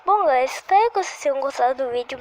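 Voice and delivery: quick mock video sign-off; fake outro. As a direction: rattle off a pretend goodbye.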